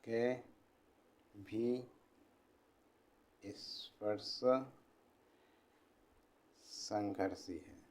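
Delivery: quiet, word-by-word dictation with long pauses; slow dictation. Acted. Teacher dictating notes to students, slow and quiet. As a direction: dictate each word slowly so the class can write.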